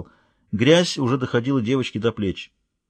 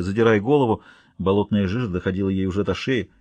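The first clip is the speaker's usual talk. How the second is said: plain reading voice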